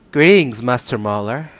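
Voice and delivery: lightly voiced female character, no German accent; a hint of a sultry woman's greeting; Von Karma. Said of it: "do the Von Karma voice, but without the German accent".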